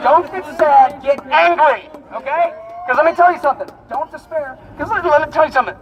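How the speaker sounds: rally the crowd like a preacher; loud soapbox ranting. Real, not acted. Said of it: "sound like a street preacher".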